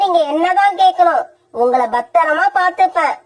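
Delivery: lightly voiced stern mother, threatening; threatening stepmother. Kori threatening the crying children, stern. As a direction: scold the crying children into bed.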